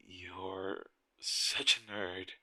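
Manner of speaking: slow, fond teasing. Real, not acted. Teasing the tester about affinity, slow fond tease. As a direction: drag it out to tease him.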